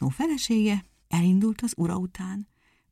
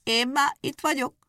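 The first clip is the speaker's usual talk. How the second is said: called out; 7 semitones higher than usual. A narrator's reading. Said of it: "elébe kiáltott".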